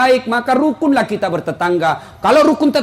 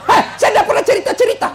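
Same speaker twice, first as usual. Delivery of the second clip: much higher, startled protest; mock indignant denial; 8 semitones higher, faster than usual. Accused husband denying he told anyone, mock indignant. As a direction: protest innocence in a raised, high voice.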